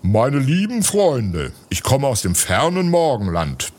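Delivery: a solemn, stately address. Acted. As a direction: speak like a dignified guest greeting a crowd. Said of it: "begann er mit feierlicher Stimme".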